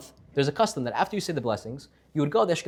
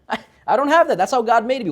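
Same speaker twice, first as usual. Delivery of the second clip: laughing; 9 semitones higher, 9 dB louder than usual. Retold or imitated. Man laughs off his excuse.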